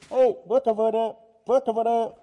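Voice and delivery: high calling voice to wake someone. Acted. Friend at the door at midnight, calling high to wake him. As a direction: call up at a dark window.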